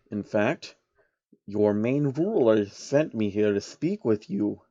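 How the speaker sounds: a hint of a scheming old man; slow and measured; lightly voiced sly old man. Soros voiced.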